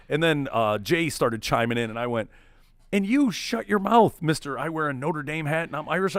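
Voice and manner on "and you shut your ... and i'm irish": retold telling-off. Turning on a friend who chimed in, mock scolding.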